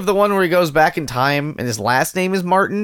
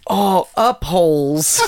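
laughing; 6 semitones higher, much slower than usual. Real, not acted. Laughing slow joke.

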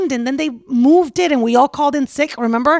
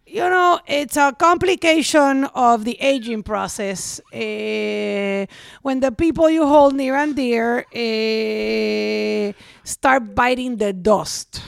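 dad impression; much slower than usual. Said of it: "impression of your dad".

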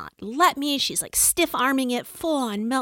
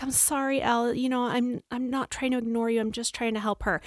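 gentle apology; 5 dB quieter than usual. Retold or imitated. Mom gently apologizing to daughter.

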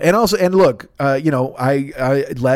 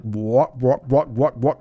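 lightly voiced alien, clipped repeated words; a hint of a puppet alien chattering; weird alien talk; much slower than usual. Imitating the Sesame Street aliens, light alien chatter. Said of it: "they would talk really weird".

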